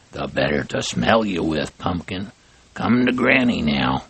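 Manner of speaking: lightly voiced sly wolf, mock hoarse; a hint of a wolf playing a sick old lady; wolf faking granny. Wolf posing as grandma.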